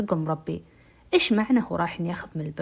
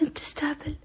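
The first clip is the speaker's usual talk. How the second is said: indignant retort; 8 semitones higher, 5 dB quieter than usual. Retold or imitated. Girl indignant at captor.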